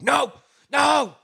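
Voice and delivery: high mock yell of frustration; self-correcting outburst. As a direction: cry out as if catching your own mistake. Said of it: "Sometimes I'm like".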